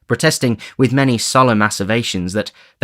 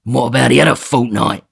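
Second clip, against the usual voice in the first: higher, louder Sikes demanding; 4 semitones higher, 5 dB louder than usual. Acted. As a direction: press him hard for an answer. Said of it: "demanded Sikes".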